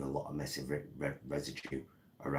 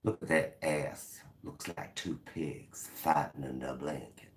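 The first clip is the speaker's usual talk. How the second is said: southern accent. Shown as a demonstration. Remarking on someone's behind, southern accent. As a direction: say it as a folksy American Southerner. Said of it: "I do like a southern accent".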